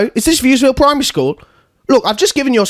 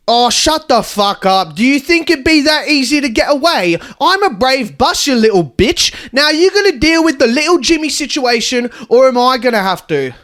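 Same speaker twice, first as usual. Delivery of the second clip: angry threatening; 3 semitones higher than usual. Acted. Confronting principal angrily.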